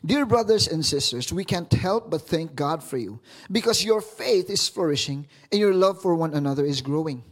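steady reading of the verses; formal scripture reading voice. Acted. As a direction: read the verses out to the church. Reads scripture aloud.

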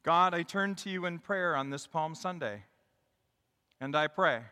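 measured public prayer; leading prayer. Real, not acted. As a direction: lead the congregation in petition. Leads a prayer.

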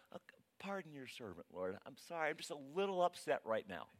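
sheepish apology after an outburst; mock-meek, toned-down prayer; sudden backing down. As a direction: back off and apologize to God in a small voice. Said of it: "And then suddenly you kinda go".

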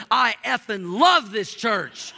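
imitating a big guy's blunt enthusiasm; emphatic heartfelt declaration. Churchgoer gripping the pastor's hand to praise the church, emphatic.

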